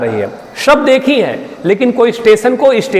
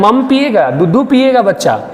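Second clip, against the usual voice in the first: put-on baby talk. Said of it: "बच्चों से बोलते हैं".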